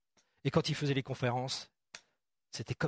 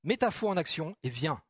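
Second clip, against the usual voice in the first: encouraging call; 3 semitones higher than usual. Retold or imitated. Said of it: "il lui dit".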